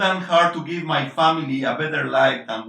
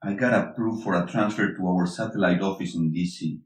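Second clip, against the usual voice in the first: lower, gentler voice after the outburst; softened tone; 8 semitones lower than usual. Acted. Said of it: "His tone softens once again".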